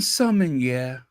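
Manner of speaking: "sommelier" in imitated French, "sum-in-YEH"; French pronunciation. Shown as a demonstration. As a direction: savour "sommelier" with an open French ending. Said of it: "Everything sounds hot in French".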